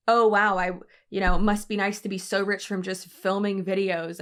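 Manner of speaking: mock-bitter jab, loud at the start; petty, bitter. Commenter sniping at a rich YouTuber, mildly mock-bitter. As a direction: imitate a petty online comment, opening with a punch. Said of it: "petty and, like, bitter things like".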